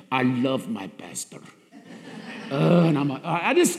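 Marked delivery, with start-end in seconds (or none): 0.1-1.4 deep, soft, tender call; low gentle voice of a loving churchgoer; congregant's greeting. Retold or imitated. Church member greeting his pastor, deep and tender. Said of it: "he hugs me".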